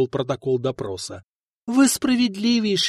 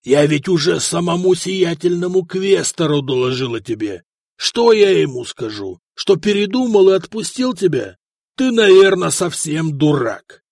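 rising louder scolding; angry; 2 semitones higher, 5 dB louder than usual. Acted. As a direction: berate him, building to shouting. Praetor berates the prisoner. (гневно)

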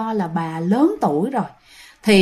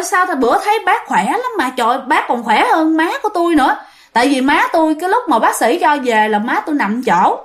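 higher-pitched, puzzled protest; startled disbelief; 4 semitones higher than usual. Retold or imitated. Son reacting to sudden death news by phone, startled disbelief. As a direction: retell a son's baffled shock at the news. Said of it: "ba của bạn mới hết hồn".

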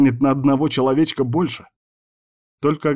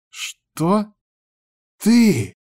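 hissing outrage; 11 semitones higher than usual. A narrator's reading. Girl stunned by his joke, hissing in outrage. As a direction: spit the words out in disbelief. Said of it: "зашипел".

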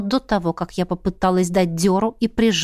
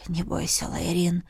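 much softer, lower, tender; gentle reassurance; 5 semitones lower, 8 dB quieter than usual. A narrator's reading. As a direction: soothe the frightened girl. King soothes softly.

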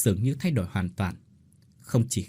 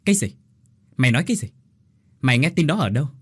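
a bit louder, startled disbelief; shocked question; 3 semitones higher, 4 dB louder, much faster than usual. A narrator's reading. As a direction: brother hears of inheritance, mild startled questions. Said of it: "Nhân đánh rơi cốc trà". (hỏi dồn, hơi sửng sốt)

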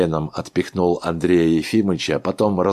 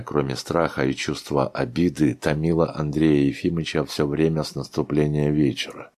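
plain reading voice

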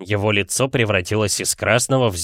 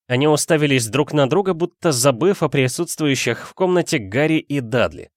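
ordinary delivery

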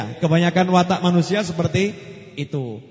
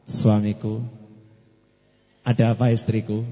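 gentle and slow; 10 semitones lower than usual. Shown as a demonstration. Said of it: "Kalau ngomong pelan-pelan".

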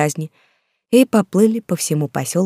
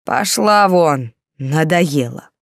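angry yell; much slower than usual. A narrator's reading. Drunk husband yelling at wife.

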